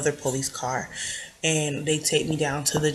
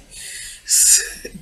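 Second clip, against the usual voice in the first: forced laugh. Real, not acted. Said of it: "it's not, like, a real laugh".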